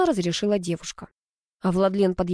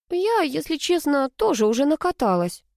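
grumbling; 7 semitones higher than usual. A narrator's reading. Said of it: "проворчала Алла".

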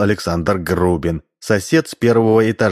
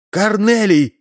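shout; 13 semitones higher, slower than usual. A narrator's reading. Wife shouting for her husband, fearing he was eaten. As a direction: call out in alarm for him. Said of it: "закричала Ксения".

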